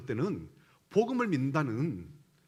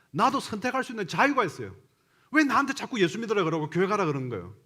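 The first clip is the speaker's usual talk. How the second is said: imitated defiant child, higher-pitched protest; child talking back; 7 semitones higher, 4 dB louder than usual. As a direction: throw it back at mother as an acted, indignant complaint. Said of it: "막 야단치면은 이렇게 얘기를 하더란 거예요". (엄마에게 따지며 대드는 아이 흉내)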